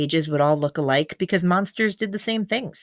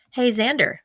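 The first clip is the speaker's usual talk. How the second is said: Felix calling out; 6 semitones higher than usual. Acted. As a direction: call across the beach as Felix. Felix calls out again.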